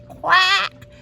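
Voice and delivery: loud happy quack; a duckling's first real quack; duckling finally quacking; proud quack. Acted. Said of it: "he went".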